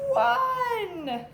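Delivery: loud, high "Three!" called out; cheerful called-out count; excited answer. Acted. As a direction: announce the answer to the class with gusto. Teacher calls out answer.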